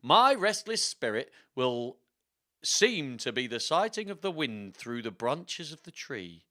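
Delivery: slow, theatrical put-on accent; Richard the third. Richard's spirit telling how he lost his crown, slow accented storytelling. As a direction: narrate as the dead king, deliberately and dramatically. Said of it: "that's gonna be his voice".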